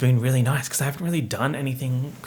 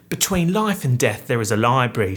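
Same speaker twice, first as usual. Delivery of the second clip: British reading voice; 5 dB louder than usual. Shown as a demonstration. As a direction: read the blurb with a British accent. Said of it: "I don't know why I'm British".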